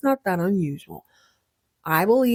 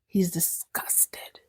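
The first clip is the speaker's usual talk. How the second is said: whispered, slow and much softer; mock disgust; 8 dB quieter, much slower than usual. Host recapping Blake's reaction, slow dramatic whisper. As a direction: breathe it like a scandalous secret.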